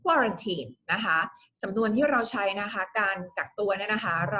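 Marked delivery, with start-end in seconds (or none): 0.0-0.7 quarantine said carefully, first syllable strongest; pronunciation demo. Shown as a demonstration. Teacher answers a viewer's question, quarantine stressed at the front. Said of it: "มันออกเสียงยังไงนะคะ คำแรกนะคะ".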